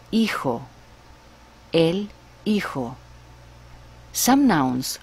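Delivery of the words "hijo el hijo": hijo with a silent h, ee-ho; el hijo said the Spanish way; Spanish pronunciation. Shown as a demonstration. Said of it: "For example".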